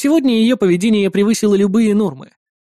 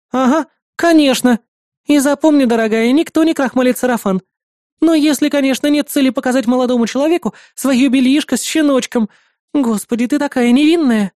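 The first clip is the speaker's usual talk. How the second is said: high, sarcastic nosy neighbour; mocking neighbour; 6 semitones higher, 3 dB louder than usual. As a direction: sneer at the princess.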